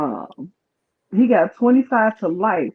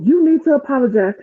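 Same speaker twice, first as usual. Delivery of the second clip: higher-pitched, insistent retold demand; mock scolding, pitched up; going off; 6 semitones higher than usual. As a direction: imitate a pushy telling-off. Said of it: "starts going off".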